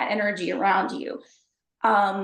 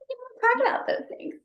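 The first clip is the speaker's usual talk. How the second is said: mock hushed warning. Mocking strict Texas upbringing.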